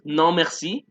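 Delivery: bof stretched slowly with a rise, no merci after; slow drawn-out bof. Shown as a demonstration. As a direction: drag out bof for the class. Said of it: "podemos decir".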